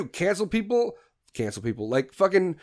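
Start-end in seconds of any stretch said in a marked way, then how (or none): 0.1-0.9 higher, rising, disbelieving; incredulous question. Acted. Rhetorical question then repeat. 1.3-1.9 low, soft flat statement; deadpan answer. Acted. Rhetorical question then repeat.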